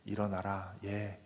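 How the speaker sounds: calm, loving wake-up call; tender words. Pretend. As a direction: coax the girl awake lovingly. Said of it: "부드러운 사랑의 말씀으로".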